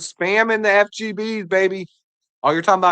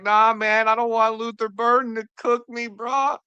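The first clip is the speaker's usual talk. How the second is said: lightly whiny, rising higher as it goes; mock-upset rookie getting higher and higher; mock crying player; 5 semitones higher than usual. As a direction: play a drafted kid fretting, half joking. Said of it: "He's crying".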